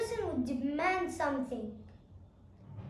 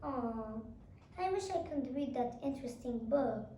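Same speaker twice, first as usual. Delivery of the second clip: soft, lower wistful sigh to oneself; wistful to self; 3 semitones lower, 5 dB quieter than usual. Shown as a demonstration. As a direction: murmur it to yourself, longing. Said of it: "they would say to themselves".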